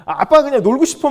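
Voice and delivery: loud, high mock-child protest; imitated whining child. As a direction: whine like a kid who wants to play. Imitates playful daughter refusing.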